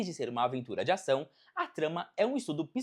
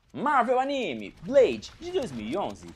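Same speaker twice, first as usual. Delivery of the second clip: slow, loud, high start that falls off; title announcement; 5 semitones higher, 6 dB louder, slower than usual. Acted. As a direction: present the title like a show announcer. Anúncio de título da seção. (anúncio de título, lento e forte)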